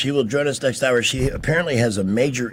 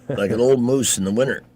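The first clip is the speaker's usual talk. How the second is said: put-on Fargo accent. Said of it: "I could just keep talking like that".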